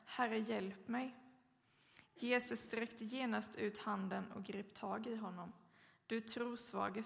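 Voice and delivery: measured, solemn Bible reading; formal church reading; scripture reading. Acted. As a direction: read the Gospel text aloud to the congregation. Reads the scripture passage.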